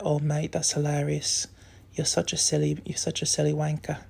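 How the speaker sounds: lightly imitated British mate; Chris. Imagining a childhood friend's reply, British accent. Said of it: "my Chris voice on TikTok".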